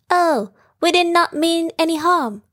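small squeaky voice. Acted. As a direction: squeak it out apologetically. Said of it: "he squeaked".

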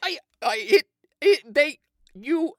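broken, halting stammer; words won't come out. Acted. Brain shut down, stammering.

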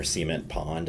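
"cement pond" with SEE-ment stressed up front; Beverly Hillbillies pronunciation. Retold or imitated. Professor quoting a hillbilly sitcom, "cement" as SEE-ment. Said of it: "like the Beverly Hillbillies".

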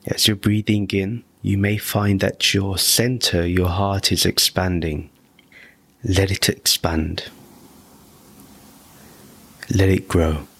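measured meditation voice, long pauses between phrases; guided meditation. Real, not acted. Teacher guiding listeners to breathe in bliss, calm guided meditation. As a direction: lead the breathing in short, spaced-out, even phrases.

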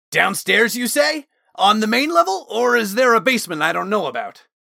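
high, loud, eager call, speeding up. A narrator's reading. Osmond calling over his shoulder to Talon, excited shout. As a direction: call back excitedly while rushing off. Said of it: "Osmond called over his shoulder".

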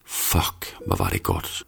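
low, very soft whisper; hvisken. A narrator's reading. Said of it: "hvisker hun". (lav, meget dæmpet hvisken)

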